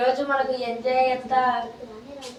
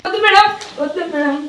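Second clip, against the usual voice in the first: pleading; 5 semitones higher, 6 dB louder than usual. Acted. Student fears the teacher's beating.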